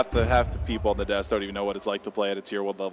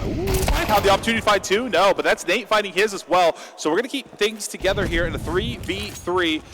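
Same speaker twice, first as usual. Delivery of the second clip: high-pitched, eager live call; excited play-by-play; 9 semitones higher, 4 dB louder than usual. Real, not acted. Caster calling a chance to find two, excited play-by-play. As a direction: lift the pitch as the round opens up.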